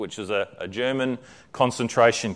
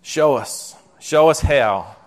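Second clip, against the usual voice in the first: matter-of-fact; 2 semitones higher, 3 dB louder, slower than usual. A narrator's reading. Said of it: "Betsy said matter-of-factly".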